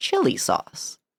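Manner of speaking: sing-song rising-falling tune on "chili sauce". Imitating how a man says a phrase: up-and-down pitch on chili sauce. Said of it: "His voice goes like up and down in an interesting way".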